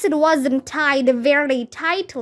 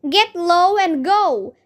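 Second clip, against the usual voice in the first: shouted; 4 semitones higher than usual. Acted. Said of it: "shouted Ryan".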